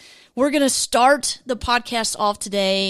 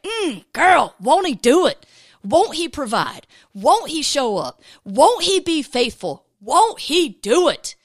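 put-on louder, higher sassy girlfriend encouragement; 4 semitones higher, 4 dB louder than usual. Shown as a demonstration. Host to listeners, hyping them up with sass. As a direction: give it a sassy "Mm, girl" punch. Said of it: "a little sass too".

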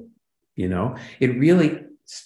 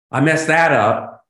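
higher, louder, slowed "I messed that up"; mock oops; 5 semitones higher, 6 dB louder than usual. Actor owning a flub, in a mock sheepish tone. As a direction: play it as a sheepish, fun little oops.

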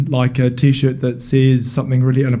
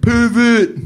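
a sudden hammed-up yell of pervert; mock accusing yell; 9 semitones higher than usual. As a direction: cry it out like an accusation. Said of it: "people just think".

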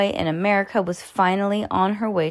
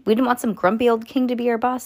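put-on quicker, higher kid voice for Judy; re-read it brightly as Judy; Judy's voice; 4 semitones higher, faster than usual. Shown as a demonstration. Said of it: "said Judy".

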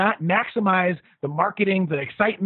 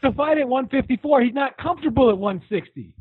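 mock whiny fighter; 4 semitones higher than usual. Mocking Jeff Horn's complaints.

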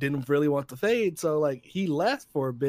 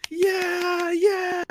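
high, loud whooping yeah; excited cheer; 4 dB louder than usual. Retold or imitated. Man next to him cheers at the screen, high and loud. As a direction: cheer like a thrilled fan. Clapping guy cheering in theater.

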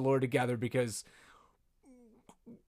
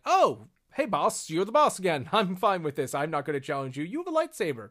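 Olmec backing down; 2 semitones higher than usual. Acted. Olmec yielding the moment Maul comes back, mock appeasing. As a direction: hand over power with a mock nervous laugh. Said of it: "he's like".

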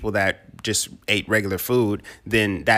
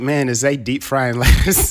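laughing; 2 semitones higher than usual. Retold or imitated. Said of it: "And you was like".

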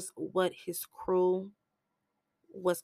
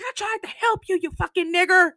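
loud, high shouted insult; furious slur; 12 semitones higher, 5 dB louder, faster than usual. Retold or imitated. Willie's brother cursing Jane's brother, loud and high. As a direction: spit the insult out.

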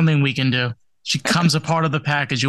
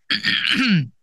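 coughing; 6 semitones higher than usual. Real, not acted. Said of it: "I apologize for a little coughing".

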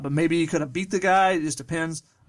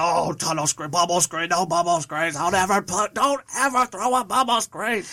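whiny angry fan griping about screens; upset fan voice. Retold or imitated. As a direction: complain like a fed-up football fan. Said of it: "that's my fan voice getting upset at bubble screen".

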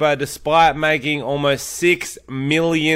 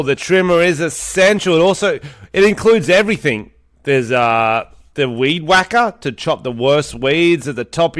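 podcast host reading sponsor copy; scripted promo delivery. Acted. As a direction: pitch the product feature by feature.

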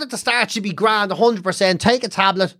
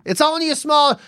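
higher, put-on self-sacrifice; mock martyr mum; 5 semitones higher than usual. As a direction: insist it is nothing, as the mother. Mother playing down her stroke.

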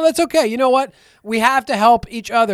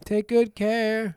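slow, higher silly voice; slow put-on voice; 4 semitones higher, much slower than usual. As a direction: drag it out like a chant. Echoing the silly voice.

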